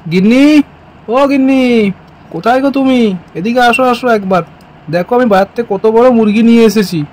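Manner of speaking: calling out for his wife through the house; acted call to someone out of sight. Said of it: "এত চেঁচামেচি করছো কিসের জন্য".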